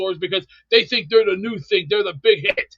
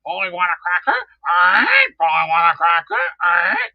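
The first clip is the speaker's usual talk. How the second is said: parrot impression; 3 dB louder than usual. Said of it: "like talking to parrots going".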